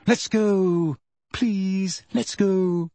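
high, frightened pleading; terrified. Acted. Hermione pleads with Hagrid, high and terrified. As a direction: beg to leave, scared. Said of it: "in a high-pitched and terrified voice".

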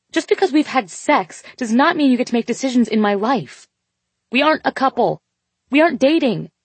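high, loud furious yell. A narrator's reading. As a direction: yell it, pitched high and angry. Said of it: "she yelled".

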